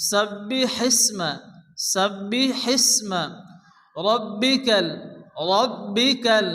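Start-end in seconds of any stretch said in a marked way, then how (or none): 0.1-3.2 সাব্বিহিসমা with a breathy ha pushed out on air; breathy big ha. Shown as a demonstration. Teacher demonstrating the big ha to students, breath out. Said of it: "মুখ দিয়ে বাতাস বের করে উচ্চারণ".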